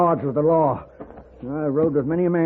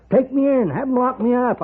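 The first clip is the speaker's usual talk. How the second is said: defiant outburst; 9 semitones higher than usual. Acted. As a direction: throw it back at him in spite. Old outlaw defiantly refuses Paladin.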